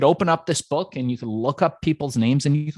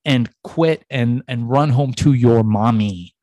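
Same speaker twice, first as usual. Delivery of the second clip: inner voice taunt; 4 dB louder than usual. Retold or imitated. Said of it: "me thinking to myself".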